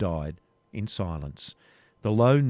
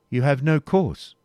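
grave; 5 semitones higher, 6 dB louder than usual. Acted. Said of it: "answered de Bois Guilbert gravely".

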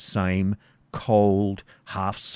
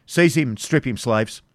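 sharp, louder order to slaves; commanding knight; 4 semitones higher, 4 dB louder than usual. Acted. The Baron ordering his slaves to seize Isaac. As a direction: bark the command.

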